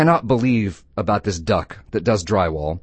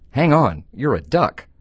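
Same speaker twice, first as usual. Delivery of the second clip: mildly startled bartender, raised pitch; surprised bartender; 5 semitones higher than usual. Acted. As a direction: stop him in mild disbelief. Bartender startled by talking duck customer.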